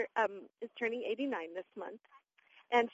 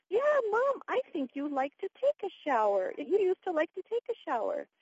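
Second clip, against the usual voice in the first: put-on higher, louder coaxing of an elderly mom; coaxing daughter, retold; 7 semitones higher, 3 dB louder than usual. Daughter persuades mother she likes showers, coaxing. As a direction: imitate yourself brightly persuading Mom.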